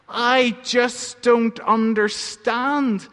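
slow, understated tearful plea; a touch of sobbing, drawn out; mild weeping. Acted. Little donkey weeps to his mother, understated and slow. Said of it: "he wept".

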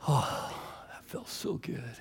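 very soft, whispered relief; hushed relief. Acted. Boy safe at home, whispering with relief. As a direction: sink into a near whisper. Relief after reaching mom.

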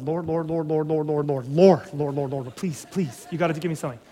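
low, rapid-fire mock prayer; pleading to God. Parent calling out to the Lord mid-crisis, pleading under his breath. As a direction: repeat it like a desperate muttered plea. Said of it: "calling out to the Lord".

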